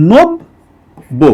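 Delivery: নব্য held very slowly as "nobbo", doubled b; drawn-out demo. Shown as a demonstration. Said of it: "এরকম।".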